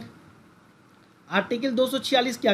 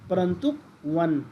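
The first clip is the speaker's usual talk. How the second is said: slow clear reading; 2 semitones lower than usual. Shown as a demonstration. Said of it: "इस तरह से इसको परंतुक बोलते हैं".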